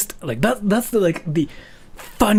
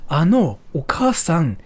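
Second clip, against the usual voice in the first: put-on a kid's voice rising in quick embarrassment; blurting a question, then catching the mistake; flustered kid; 5 semitones higher, faster than usual. Kid who called the teacher Mom, flustered and rushed. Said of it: "what a lot of kids do in Japan".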